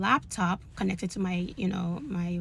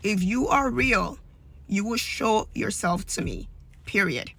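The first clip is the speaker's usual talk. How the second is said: pleading prayer; slower than usual. Retold or imitated. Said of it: "And I just kept saying".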